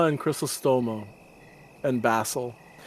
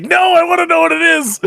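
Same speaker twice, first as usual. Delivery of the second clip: high, loud eager whine; impatient whine; 11 dB louder than usual. Retold or imitated. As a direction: mimic an impatient kid. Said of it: "mock impatience".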